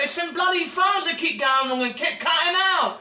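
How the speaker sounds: angry rant. Real, not acted. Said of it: "very frustrated if he can't get through".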